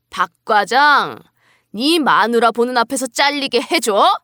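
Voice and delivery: acted angry boss, mildly heated scolding; irritated anger. Company boss berates his employee for bringing his wife, irritated. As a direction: berate them like a fed-up boss. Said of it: "역정을 냈고요".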